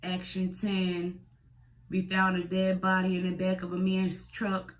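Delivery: mock news report. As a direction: announce it like a cheesy TV news anchor.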